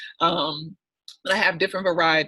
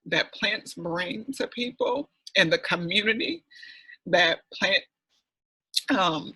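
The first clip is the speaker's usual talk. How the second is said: getting emotional; 2 semitones higher than usual. Real, not acted. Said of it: "I'm getting emotional".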